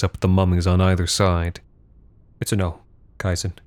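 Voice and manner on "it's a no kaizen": cowering plea. Acted. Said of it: "she whimpered".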